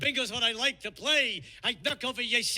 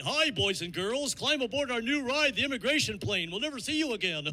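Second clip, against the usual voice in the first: Goofy; 3 semitones higher than usual. Retold or imitated. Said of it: "Goofy would meet you at the gate".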